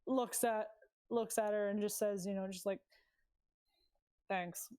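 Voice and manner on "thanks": short, slightly awkward thanks. Acted. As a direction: say a small, uncomfortable thanks. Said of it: "Awkward thanks".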